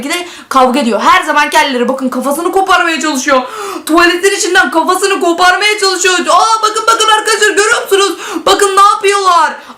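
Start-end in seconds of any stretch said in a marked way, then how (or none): 6.2-9.7 excited shouting. Real, not acted. Excited at fighting toilets.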